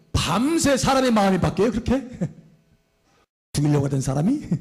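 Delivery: chuckling in disbelief; amused disbelief. Real, not acted. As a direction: ask it through a small laugh. Incredulous aside with laughs around it.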